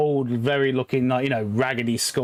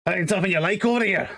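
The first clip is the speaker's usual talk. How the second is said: teasing dwarf; 6 semitones higher, faster than usual. Acted.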